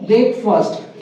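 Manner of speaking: ब्रेकफास्ट with short "fust"; corrected pronunciation. Shown as a demonstration. Teacher drilling the answer for students, corrected pronunciation. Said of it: "क्या बोलेंगे".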